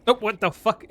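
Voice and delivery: loud high shocked curse; startled curse. Real, not acted. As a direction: blurt it out in real shock. Player startled by game event.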